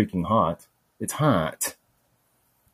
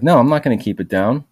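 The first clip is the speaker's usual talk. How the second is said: louder, higher refusal; defiant retold yell; 4 semitones higher, 5 dB louder than usual. Hurt man yelling back at jeering strangers, defiant shout. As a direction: push back hard, loud.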